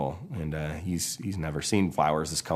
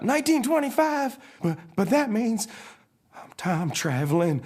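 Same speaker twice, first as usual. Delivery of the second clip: high stammering cartoon shock; freaking out. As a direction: realize in alarm, slowing at the end. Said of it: "Mater freaks out".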